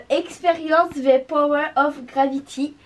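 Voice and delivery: put-on slow, careful French-accented English; proudly hammed-up English accent. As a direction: read the English name in a schoolgirl English accent. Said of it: "Mon accent anglais, parfait".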